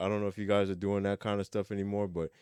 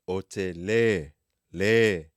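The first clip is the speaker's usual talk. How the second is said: le said louder, E stressed; 5 dB louder, much slower than usual. Shown as a demonstration. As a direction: punch the le. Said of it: "we're gonna stress the E".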